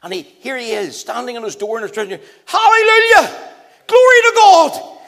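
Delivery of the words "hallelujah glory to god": loud, high, drawn-out cry of praise; joyful shout. Retold or imitated. Neighbour in dressing gown rejoicing at the news, shouting. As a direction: shout it to heaven with joy.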